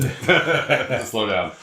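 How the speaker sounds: laughing. Real, not acted. Jokes about slowing down, laughing.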